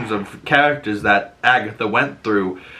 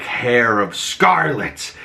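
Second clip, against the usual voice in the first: slow incantation; much slower than usual. Retold or imitated. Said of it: "And she's like".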